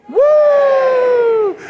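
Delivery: very high, loud cheer; excited whoop. Real, not acted. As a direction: cheer like you're leading the crowd. Host cheering at the awards start.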